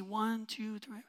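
counting rows under the breath; a parent counting choir kids in a whisper. Retold or imitated. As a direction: whisper the numbers to yourself.

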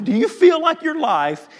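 high shouted call to the room; shouted repeat. Shown as a demonstration. Preacher to church, the same question shouted. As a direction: throw the question out loud to the church. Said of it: "repeated as a shout".

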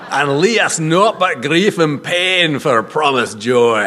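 light Scottish accent on the poem's line; amateur Scottish reading; dodgy Scottish accent. Shown as a demonstration. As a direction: finish the verse with a Scottish lilt. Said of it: "my Scottish accent's pretty dodgy".

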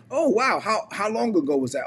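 high-pitched mock amazement; amazed listener. Voices an amazed listener's question.

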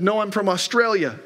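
light imitation of an Australian accent; mock Australian accent, lightly done. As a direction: retell it with a hint of Australian. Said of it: "in the strangest accent".

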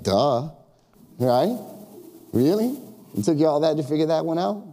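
sarcastic "Duh, right? Really?"; mock sarcastic. Jesus teased in mock sarcasm, playful. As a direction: roll your eyes at her. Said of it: "He's like".

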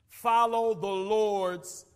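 slow, deliberate preacher's command; slow preaching emphasis. Real, not acted. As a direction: lay down the command slowly.

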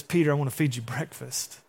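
soft, tender offer of breakfast; gentle invitation. Retold or imitated. Preacher voicing Jesus gently inviting Peter, soft and tender. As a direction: invite him kindly, quietly. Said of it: "That's not Jesus' tone".

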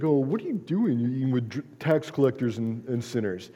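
mocking, mildly whiny complaint; mock whining. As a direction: whine like a little baby, lightly hammed up. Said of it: "whining like, like whining little babies".

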